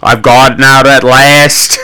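slow, drawn-out acted declaration; lightly hammed-up escaped woman; triumphant madwoman. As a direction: savour each word in a put-on voice.

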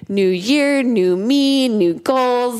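lilting pretend excitement; mock hype. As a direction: imitate New Year's enthusiasm, lightly. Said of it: "everyone gets a lot of hype".

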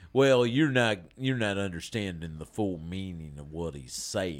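low apologist voice, lightly played; put-on character voice. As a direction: explain it away in a put-on character voice. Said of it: "with the voice thing".

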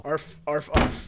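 soft barking seal noises. Pretend. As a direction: arf like a seal. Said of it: "That was my seal impression".

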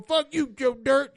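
hammed-up movie threat; a singer's line. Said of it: "It was a singer going".

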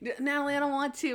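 half-hearted mock whine; whiny. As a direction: mimic a complainer with a light whine. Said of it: "He whine, like".

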